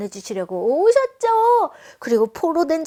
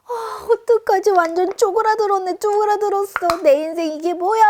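put-on panicked kid; 5 semitones higher, 4 dB louder than usual. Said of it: "하면서 막 이렇게 쪼그라든 것처럼".

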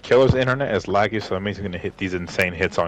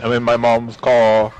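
strangling vine; 5 dB louder, slower than usual. Retold or imitated. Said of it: "like Divine?".

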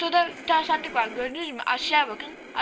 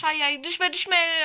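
high, loud don't-fall plea; anxious plea; 4 semitones higher, 5 dB louder, slower than usual. Real, not acted. Gamer pleading as his character nears a drop, anxious. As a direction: beg the character not to fall.

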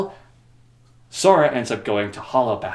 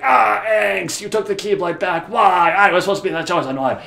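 higher, louder hammed-up whine; mock whiny Riku; 8 semitones higher, 5 dB louder than usual. Riku complaining to Sora about the Keyblade, whiny. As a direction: whine like a sulky chosen one.

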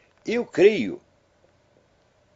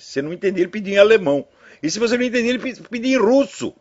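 each language pushed higher and louder, building to a peak; mounting comic exasperation; 10 semitones higher, 5 dB louder, faster than usual. Retold or imitated. Telling listeners about the multilingual beggar, climbing higher and louder. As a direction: pile it on, climbing with every try.

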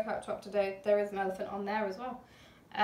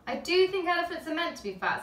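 put-on higher, louder boy stressing "do"; child insisting; 7 semitones higher, 4 dB louder than usual. A narrator's reading. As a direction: insist he was right all along. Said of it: "said Luke".

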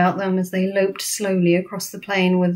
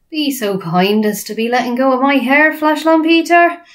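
high, rising giant plea; friendly giant, polite; 6 semitones higher, 5 dB louder than usual. Acted. BFG asking bully to release him, polite giant. BFG voiced, grabbed by hair.

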